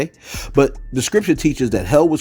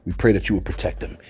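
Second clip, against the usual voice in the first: earnest spoken prayer for safety. Real, not acted. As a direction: pray over them, steady and sincere. Leads a prayer for the storm.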